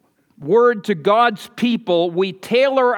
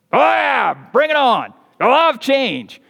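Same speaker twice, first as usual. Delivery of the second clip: sarcastic enthusiasm; 4 semitones higher than usual. Pretend. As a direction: cheer it on, dripping with sarcasm. Men mock loving change.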